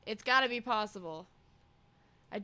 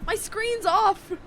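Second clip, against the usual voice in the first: squeaky high voice; 11 semitones higher, 5 dB louder, slower than usual. Acted.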